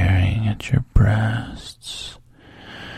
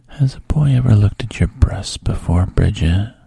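voiced, louder coaxing lines breaking out of the whisper; coaxing man; 5 dB louder, faster than usual. The man reassuring Bridget, louder coaxing voice. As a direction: lean in and reassure her out loud. Man's quoted question.

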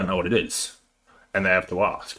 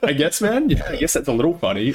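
higher, hesitant acceptance; grudging concession; 4 semitones higher, faster than usual. Retold or imitated. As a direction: act out reluctantly admitting it is funny. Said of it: "you hear it, you're like".

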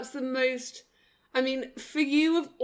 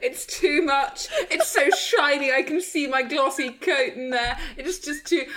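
whiny pet complaint; 3 semitones higher than usual. Pretend. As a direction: moan like a pampered dog who misses Cyprus. Voicing the dog complaining about floors.

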